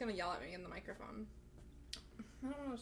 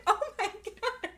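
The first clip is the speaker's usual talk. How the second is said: excited exclaim; 12 semitones higher, 9 dB louder than usual. Retold or imitated. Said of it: "And I was like".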